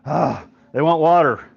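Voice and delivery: exasperated plea with a sighed "ah"; frustrated. Retold or imitated. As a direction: imitate a leader fed up with his people. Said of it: "he goes to God frustrated".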